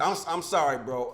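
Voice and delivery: hiccuping through the words; hiccups. Real, not acted. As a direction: voice catching like hiccups. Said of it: "sound like you got the hiccups".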